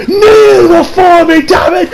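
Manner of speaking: very high, slow commanding shout; Zod. Retold or imitated. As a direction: roar the order down at him. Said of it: "Like she's fucking Zod out here".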